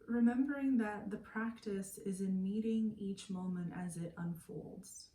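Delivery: calm, unhurried meditation guide with long pauses; guided meditation. Acted. Meditation teacher settling listeners lying down for yoga nidra, calm guided meditation. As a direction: ease them into stillness, pausing between phrases.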